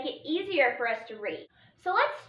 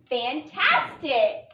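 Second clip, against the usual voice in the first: Fantastic, stretched out slowly, each part clear; slow blending; much slower than usual. Shown as a demonstration. Teacher blending the syllables for the class, slowly. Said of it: "Let's start by writing fan".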